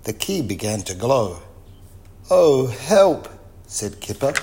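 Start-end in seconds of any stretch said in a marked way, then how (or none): 2.3-3.3 louder, higher storybook alarm; alarmed cry for help. A narrator's reading. Kipper sees the magic key glowing, alarmed cry. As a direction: cry out in mild panic, drawn from the reader's voice.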